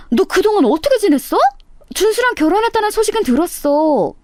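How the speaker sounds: high, gushing classmate voice, overly sweet; a show-off old classmate faking delight at the reunion; fake-friendly classmate. 동창 가인의 과장된 인사. (과장되게 반가운 척하는 높은 목소리)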